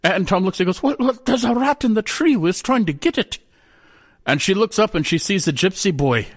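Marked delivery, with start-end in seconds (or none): 0.8-3.4 fool's voice pitched much higher; sly, high-voiced jester. A narrator's reading. Jester Tom answering the Queen, high and sly.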